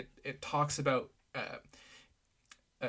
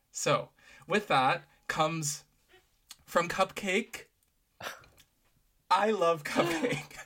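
excited gushing; 4 semitones higher, 4 dB louder, much slower than usual. Real, not acted. Introducing favorite artist's song.

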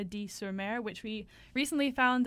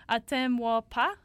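French accent, self-consciously attempted; 4 dB louder than usual. Shown as a demonstration. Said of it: "this French accent is terrible".

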